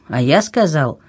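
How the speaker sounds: lightly voiced man's retort in natural pitch; a hint of a stubborn king; insistent king. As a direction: counter firmly, without raising the pitch. King retorts with her words.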